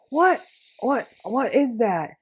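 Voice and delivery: high, sudden what-was-that; startled. Retold or imitated. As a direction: jump at something flying at you. Startled by something hitting her.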